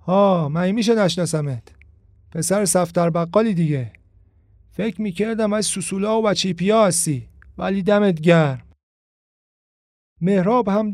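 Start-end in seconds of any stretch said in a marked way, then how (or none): 0.0-8.6 street tough tone. Acted. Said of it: "با لحنی الواتی".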